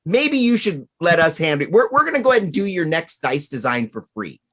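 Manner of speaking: lightly put-on Cockney, a bit fast and high; a hint of a cocky Cockney salesman; bad Cockney accent. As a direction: Chessex caller lecturing GW in mock Cockney. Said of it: "has a Cockney accent".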